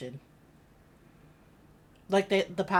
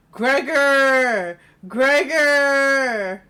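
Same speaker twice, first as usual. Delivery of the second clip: loud shout of a name, pitched up; calling out; 7 semitones higher, 12 dB louder, much slower than usual. Acted. Streamer calls game character Gregor from another room, shouting. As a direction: yell for Gregor across the house.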